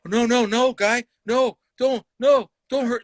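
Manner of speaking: high, quick string of scared protests; mock fearful pleading. Comic mimics the fear the heckler expects, mock pleading. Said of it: "I'm gonna fear him".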